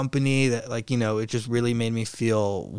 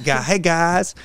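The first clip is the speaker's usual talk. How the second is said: South African accent; 6 semitones higher, 6 dB louder, slower than usual. Shown as a demonstration. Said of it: "a little like that".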